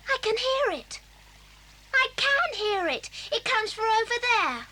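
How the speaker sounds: thrilled, with lifted pitch; excited discovery. Acted. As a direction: announce an exciting find. First hears the hidden spring.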